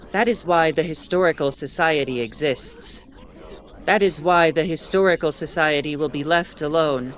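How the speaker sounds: menacing voice taking over the broadcast; ominous intrusion. Acted. Intruding voice makes threats.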